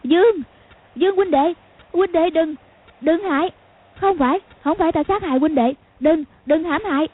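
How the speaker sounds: high-pitched frightened pleading; panicked cry. A narrator's reading. Khúc Cô mistakes Dương Quá for a ghost, panicked cry. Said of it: "kêu thất thanh".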